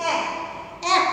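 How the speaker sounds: এক said with an open ae vowel, as aek; এক pronounced aek, not ek; pronunciation demo. Shown as a demonstration. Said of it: "দেখো আমরা এইভাবে উচ্চারণ করি".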